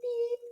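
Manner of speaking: a high beep like a toy horn; car horn beep. Shown as a demonstration. Teacher imitating a car horn for a drawing, high beep. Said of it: "make it sound beep".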